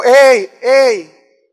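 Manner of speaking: weak hey hey. Shown as a demonstration. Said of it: "si le digo".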